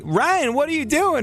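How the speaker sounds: very high mock pop-star accent; exaggerated, startled pop-star accent; a singer's accent. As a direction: squeal it in a put-on starlet accent. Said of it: "that's my singer accent".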